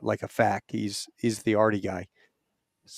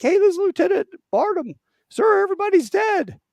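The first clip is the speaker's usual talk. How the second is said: high, loud panicked report; frantic radio call; 5 dB louder than usual. Retold or imitated. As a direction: yell it urgently into the radio.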